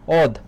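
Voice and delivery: first syllable ওদ said with a closed "o", not open "aw"; o-sound pronunciation. Shown as a demonstration. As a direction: say ওদ as "od", a syllable on its own. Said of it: "ও হয়ে যায়".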